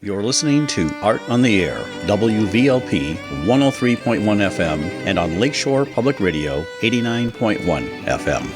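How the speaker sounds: measured radio announcer delivery; station ID read. Acted. Reads the station identification.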